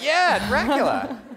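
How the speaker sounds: high, loud, drawn-out exclamation; hammed-up kid's thrill, slow and shouted; excited recognition. Ten-year-old finally recognizes the coach's homeland, excited shout.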